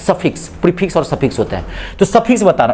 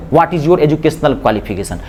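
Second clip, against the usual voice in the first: slow example; 4 semitones lower, much slower than usual. Shown as a demonstration. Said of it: "example sentence for the class".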